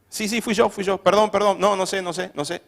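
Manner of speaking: lightly acted string of apologies; humble owning up. Someone admitting fault, lightly acted apologetic confession. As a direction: own up in quick repeated bursts. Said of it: "la gente que reconoce su no sé".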